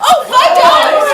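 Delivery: high, loud and slowed in mock amazement; surprised. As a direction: act amazed at the bargain. Hears surprisingly low price.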